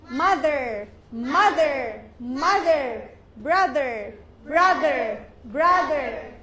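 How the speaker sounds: "mother" and "brother" loud, each with a voiced TH in the middle; hard medial TH. Shown as a demonstration. Teacher drilling TH medially, emphatic "mother" and "brother". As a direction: punch out "mother", "brother" with a buzzing TH. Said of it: "T H medially".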